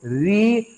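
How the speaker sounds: री with the tongue stopping short of the palate; pure Sanskrit री for the students; pure ri demo. Shown as a demonstration. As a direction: sound out री the Sanskrit way. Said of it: "जीभ हमारी केवल यहीं तक जाएगी".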